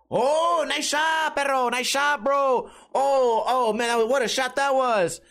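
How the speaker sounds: high, drawn-out imitation of a delighted buddy; hyped-up pool buddy impression; upbeat cheering. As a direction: cheer on a pal's shot, high and happy. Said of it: "it's always upbeat, always happy".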